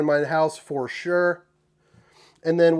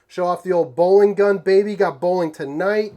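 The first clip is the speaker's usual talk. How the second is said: hyped boast; 2 semitones higher, 6 dB louder than usual. Real, not acted. Hyped about bowling night.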